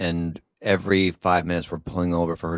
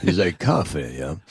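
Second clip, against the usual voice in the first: lightly done punchy tough-guy impression; Stallone. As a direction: dim but sure of himself. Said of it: "like, the punchy Stallone".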